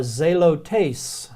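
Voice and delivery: zelotes said slowly, ZAY-loh-tays; slow Greek word. Shown as a demonstration. Teacher to class, sounding out zelotes slowly. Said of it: "is this word".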